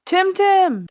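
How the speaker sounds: high-pitched shouted call; yell. Acted. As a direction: yell the name out into the house. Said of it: "I just yell".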